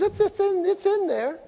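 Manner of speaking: high, sheepish little voice for the wife. Retold or imitated. Pastor imitating his wife's high, sheepish excuse about her closet. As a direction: squeak it out like a wife caught with a messy closet.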